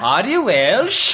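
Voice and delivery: mock Welsh.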